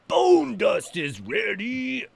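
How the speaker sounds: high, slow, drawn-out called-out announcement; sing-song call. Real, not acted. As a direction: sing it out like a proud crafter. Calling out while crafting in game.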